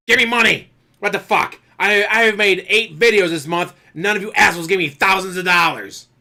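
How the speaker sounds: suddenly high, loud mock rant for money; mock ASMR artist shouting. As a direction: explode at the viewers like a greedy creator. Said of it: "an A S M R artist and they do that".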